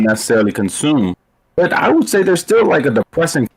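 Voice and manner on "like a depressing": audio cutting out; choppy broken-up mic; glitching audio. Real, not acted. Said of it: "You keep cutting out for the stream".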